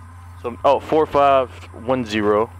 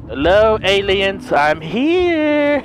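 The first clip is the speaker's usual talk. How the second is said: mock taunt; 5 semitones higher, much slower than usual. Real, not acted. Taunting aliens after snapping.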